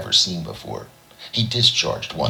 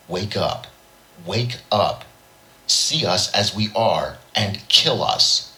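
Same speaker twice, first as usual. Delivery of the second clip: mock alien croak, slower at the end; imitating the alien croak; 6 semitones higher, slower than usual. A narrator's reading. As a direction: put on the creature's croaking voice, pitched up. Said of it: "imitating the alien croak".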